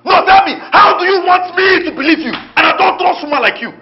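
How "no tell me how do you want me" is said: angry retort. Acted. Husband arguing with his wife.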